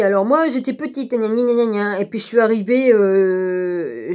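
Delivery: sing-song mocking imitation of the woman's tale; mocking her story. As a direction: mimic her story as silly gibberish. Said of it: "elle a tricoté une histoire, hein, vas-y". (imitation moqueuse d'une femme qui raconte sa vie)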